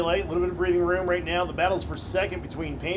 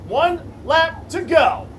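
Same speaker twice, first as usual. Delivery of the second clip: excited race call; 8 semitones higher, 8 dB louder than usual. Real, not acted. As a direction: call the finish with full hype. Final lap race call.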